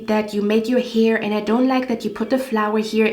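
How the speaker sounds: mock her nitpicking list of complaints; snobby picky woman. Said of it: "her energy was so disgusting".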